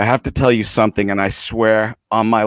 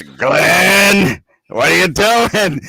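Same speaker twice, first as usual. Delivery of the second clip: higher, lightly voiced British friend calling his name; Claude's voice; 7 semitones higher, 5 dB louder, much slower than usual. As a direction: recall a friend's gentle check-in, a touch higher. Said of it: "I heard in my head Claude's voice".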